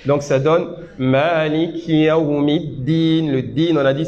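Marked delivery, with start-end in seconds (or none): 1.0-3.3 slow tajwid; slow recitation. Shown as a demonstration. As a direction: recite Maliki Yawmiddin slowly with an airy k. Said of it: "mais avec un peu d'air".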